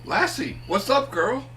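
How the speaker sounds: high, loud talking to a dog; hammed-up alarm to the family dog; Lassie routine. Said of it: "the Lassie routine".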